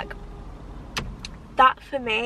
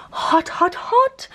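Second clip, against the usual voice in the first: emphatic repeat; 7 semitones higher, 7 dB louder, much slower than usual. Real, not acted. Stressing how hot it is.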